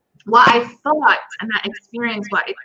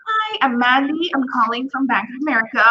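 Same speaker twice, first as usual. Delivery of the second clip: put-on American accent; 2 semitones higher than usual. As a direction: put on a perky American accent for a sales call. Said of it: "Do your American accent".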